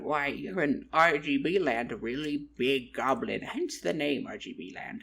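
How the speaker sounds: a hint of a storybook goblin local; lightly voiced goblin. Goblin answering a lost traveler, lightly put-on character voice. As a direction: lightly play a goblin explaining things. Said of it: "he went".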